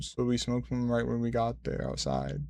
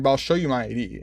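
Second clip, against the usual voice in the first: a touch of annoyed attitude; kind of an attitude; 3 dB louder, faster than usual. Retold or imitated. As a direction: retell it as a mildly irritated comeback. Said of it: "I said it with, like, kind of an attitude like that".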